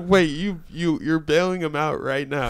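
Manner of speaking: re-enacted amazed double-check; retold disbelief. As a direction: check it as if you can't believe it.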